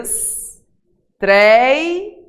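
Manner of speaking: "Estreia" broken as "es... tréi... a"; "Estreia" slowly separated, stressed middle syllable rising; split into syllables. Shown as a demonstration. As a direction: stretch and raise a loud "trei" in "Estreia". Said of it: "vou separar aqui pra você ver".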